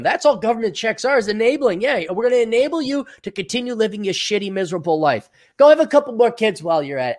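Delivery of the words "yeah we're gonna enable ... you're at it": mock sarcastic enabler. Mock government voice.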